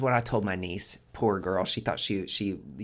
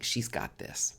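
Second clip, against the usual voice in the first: soft unvoiced self-encouragement; whispered reminder; 6 dB quieter, slower than usual. Niece reminding herself each day, soft whisper. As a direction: whisper it to yourself.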